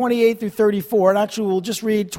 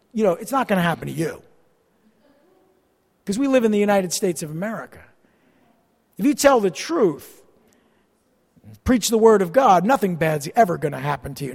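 quick, dry sarcasm; sarcastic mocking tone; 3 semitones lower than usual. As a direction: toss it off mockingly to make the point. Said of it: "I'm being sarcastic".

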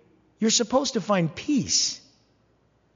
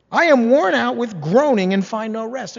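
voiced lament; 4 semitones higher, 5 dB louder than usual.

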